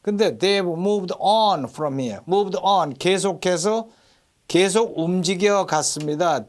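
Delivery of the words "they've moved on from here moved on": "on" long and punched; stress on "on". Shown as a demonstration. Teacher contrasts the adverb, "on" strongly stressed. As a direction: hit the word "on" and stretch it. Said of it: "on에 강세가 들어가요".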